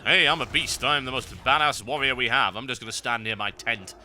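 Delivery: mock boasting. Player mimicking the idle warrior's excuse, mock boasting. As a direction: puff it up like a self-declared champion.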